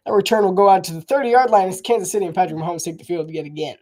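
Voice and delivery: brisk sportscaster call of the return; live play-by-play. Acted. Streamer calling his own game like a broadcaster, lively play-by-play. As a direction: call the kickoff return like a TV announcer.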